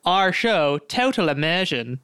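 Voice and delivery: lightly put-on British accent. Shown as a demonstration. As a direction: demonstrate talking in italics with a slight British lilt. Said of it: "it's much easier for British people".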